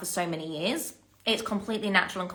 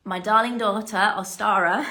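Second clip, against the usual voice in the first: fighting back tears on her name; telling of her daughter, close to tears; 5 dB louder than usual. Real, not acted. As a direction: voice catching, near tears. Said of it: "Oh, I'm gonna cry".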